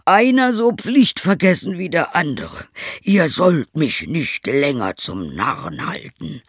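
high, loud furious scolding; angry scolding. Acted. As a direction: berate them in rage. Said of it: "rief der Schneider".

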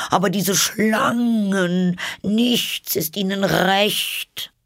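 very high, slow bird wail; exasperated pigeon. A narrator's reading. Pigeon complains nothing suits the snakes, exasperated. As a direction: draw out the complaint in a high screech.

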